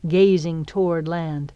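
usual speaking voice

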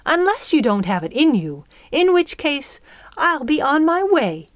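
huffy retort climbing in pitch; heated challenge. A narrator's reading. Fairy about to fly off, heated challenge. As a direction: threaten to leave without her, riled. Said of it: "The old fairy's color was still high".

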